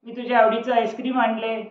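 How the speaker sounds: father calling his son for ice cream. Acted. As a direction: call the boy with good news. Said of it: "त्यांनी आवाज दिला".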